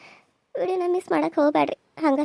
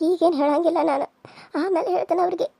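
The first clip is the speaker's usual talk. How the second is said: laughing through words. Acted. Laugh heard on lines.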